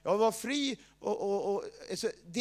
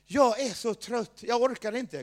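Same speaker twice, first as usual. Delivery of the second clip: sudden tiredness; 3 semitones higher, 5 dB louder than usual. Retold or imitated. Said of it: "känner jag bara plötsligt".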